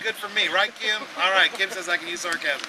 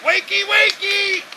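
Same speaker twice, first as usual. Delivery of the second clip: higher, louder mock concern; sarcastic taunt; 6 semitones higher, 7 dB louder than usual. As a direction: tease them about their sleeping god. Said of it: "He's like".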